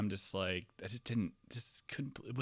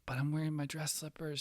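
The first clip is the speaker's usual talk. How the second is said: whiny protest; 6 semitones higher, 4 dB quieter than usual. Retold or imitated. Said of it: "I'm like".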